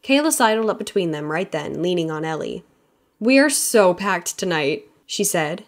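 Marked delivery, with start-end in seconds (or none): 3.2-4.9 bubbly, slowed, a touch louder; enthusiastic. Acted. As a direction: gush about the busy night. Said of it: "never-ending enthusiasm pouring from her".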